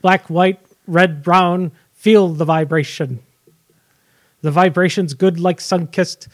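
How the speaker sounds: deadpan spoken rap lyrics, little melody; monotone lyric recital. Pretend. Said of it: "like, monotone voice".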